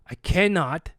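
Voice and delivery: low, slow, heated with a little gravel; firm, measured refusal with a gravelly edge; low and deliberate, getting a little heated. Retold or imitated. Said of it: "there's a little gravel in my voice".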